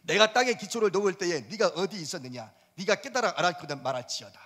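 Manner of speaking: solemn formal reading of the verse; lofty Bible recitation; scripture reading. Shown as a demonstration. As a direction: read it like scripture aloud. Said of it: "사 절 봅시다".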